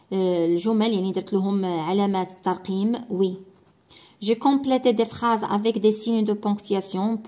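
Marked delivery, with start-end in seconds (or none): 4.2-7.3 slow reading. Shown as a demonstration. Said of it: "reading a checklist slowly".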